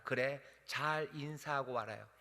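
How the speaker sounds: slow, soft send-off; gentle blessing. Shown as a demonstration. Preacher voices Elijah kindly sending Elisha home. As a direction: kindly let him go. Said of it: "으름장 놓지 않아요".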